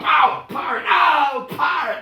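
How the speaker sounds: high, loud yelping in pain; hammed-up yells of pain; pained yelps. Shown as a demonstration. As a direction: cry out ow as if being hit. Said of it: "policeman beating you up".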